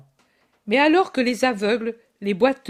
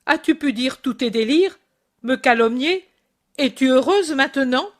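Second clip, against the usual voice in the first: raised, accusing voice at his mother; angry retort; 4 semitones higher, 4 dB louder than usual. Acted. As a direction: lash out at her. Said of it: "il l'apostrophe".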